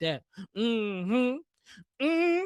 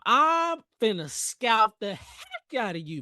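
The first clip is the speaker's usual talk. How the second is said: mock high, slow voice; 3 semitones higher, slower than usual. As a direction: stretch it out up high. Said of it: "I did that in my high voice".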